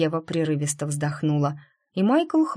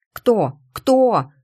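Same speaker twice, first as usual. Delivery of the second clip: eager demand; 5 semitones higher, 8 dB louder than usual. Acted. Настя требует имя.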